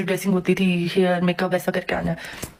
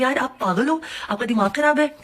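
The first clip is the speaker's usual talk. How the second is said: pitched-up indignant scolding; exasperated, higher; 4 semitones higher than usual. Retold or imitated. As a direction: scold her in disbelief. डेकोर वाली लड़की पर भड़कना. (ऊँची आवाज़ में झुंझलाकर डांटना)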